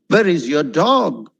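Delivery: slow question with "dog" lifted; deliberate demo question, lilt on "dog"; question intonation on DOG. Shown as a demonstration. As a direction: ask slowly, pushing "dog" up. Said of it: "dog went up".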